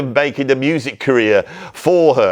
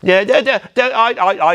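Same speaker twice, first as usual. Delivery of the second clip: high, breezy rich father; posh dad; 5 semitones higher than usual. Acted. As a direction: brush it off like a pleased old toff. Posh dad reassures daughter.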